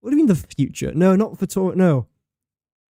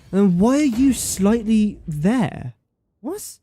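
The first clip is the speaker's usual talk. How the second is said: mock scolding voice; 6 semitones higher, slower than usual. Grumbling at misaligned game piece.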